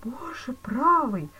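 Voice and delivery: slow stunned whisper. A narrator's reading. Stunned banker hearing his sentence, whispered. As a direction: breathe it out, thunderstruck. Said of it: "проговорил Зюдерланд, совершенно ошеломлённый".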